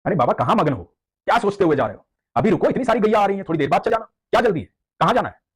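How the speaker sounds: put-on calling boy. Cowherd boy calling to the angry devotee, high and urgent. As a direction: call after the old man like a village boy. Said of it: "बाबा को बोल रहा है".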